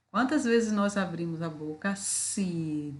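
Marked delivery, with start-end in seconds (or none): 2.0-2.9 syllable by syllable. Shown as a demonstration. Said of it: "vamos falar bem pausadamente".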